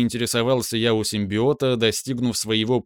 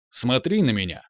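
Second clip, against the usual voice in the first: booming arrogant alien overlord. Acted. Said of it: "Повелительно и громогласно раздалось".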